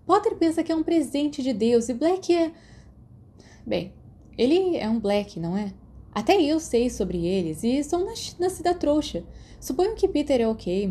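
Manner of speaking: put-on a touch of a teen girl rolling her eyes. Narrator voices Lily gossiping.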